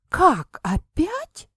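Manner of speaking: громко, сильно выше, почти вскрик; не верит, что он снова застрял; неверящий возглас. A narrator's reading. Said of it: "неверяще воскликнула я". (неверяще восклицает)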